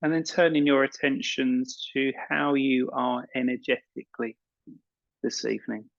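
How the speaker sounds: calm meditation guide with long pauses; unhurried guiding voice, leaving space between phrases; guided meditation. Acted. Yoga teacher settling an evening class into relaxation, guided meditation.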